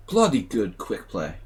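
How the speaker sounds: rusty mock-British accent. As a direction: try on a British accent for fun. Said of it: "lost his British accent".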